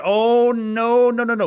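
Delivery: real alarm at bad news; dismayed. Real, not acted. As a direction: react in real dismay, high and loud. Sell order seen on level two.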